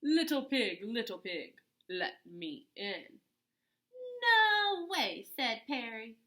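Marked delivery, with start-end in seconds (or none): 0.0-3.2 coaxing wolf calling at the door; lightly voiced wolf crooning; sly wolf voice. Wolf calls to pig. 4.2-5.2 shrill shout, much higher; frightened pig shouting no; loud refusal. Acted.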